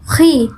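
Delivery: "khi" said with rounded, pushed-out lips; pursed-lip articulation. Shown as a demonstration. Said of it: "yang pertama kita memoncongkan". ("khi" dengan bibir dimoncongkan)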